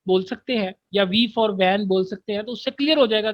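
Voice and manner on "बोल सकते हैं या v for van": spelling code demo. Shown as a demonstration. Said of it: "तो वहां पर आप".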